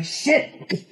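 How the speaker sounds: high, soft dismayed swear; muttered curse. Retold or imitated. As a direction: mutter it under your breath, dismayed. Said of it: "You're gonna say".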